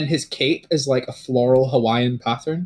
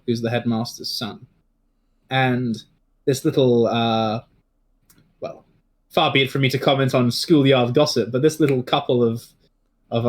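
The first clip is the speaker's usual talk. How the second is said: Avidar's advice; 2 semitones lower than usual. Acted. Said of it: "shakes his head and goes".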